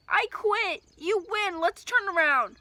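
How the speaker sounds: loud high shout of surrender. Acted. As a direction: give up, yelling over the storm. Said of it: "I shouted".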